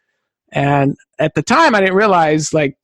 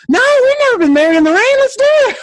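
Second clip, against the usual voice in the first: much higher, fast eager outburst; excited; 4 dB louder, faster than usual. Retold or imitated. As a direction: jump at the chance, thrilled. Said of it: "We're like".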